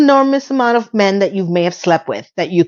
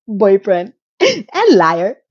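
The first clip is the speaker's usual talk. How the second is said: slow, laughing through the words; much slower than usual. Retold or imitated. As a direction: giggle through it slowly. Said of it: "she narrates".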